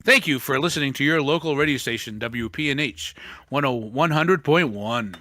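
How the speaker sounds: fast, breezy station ID; radio DJ. Pretend. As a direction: rattle off the call sign like a DJ.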